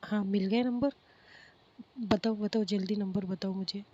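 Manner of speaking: loud, eager pleading for the number; eager excitement. Acted. Friend on the phone begging for the number, loud and eager. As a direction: push hard, you can't wait to get it.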